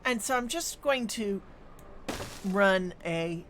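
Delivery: talking through hiccups; hiccuping mid-sentence. Real, not acted. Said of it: "I've got the hiccups now".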